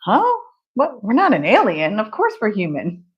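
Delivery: mock-baffled kid, pitch swooping up and down; lightly acted puzzled child; literal-minded kid. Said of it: "said it to a kid and the kid".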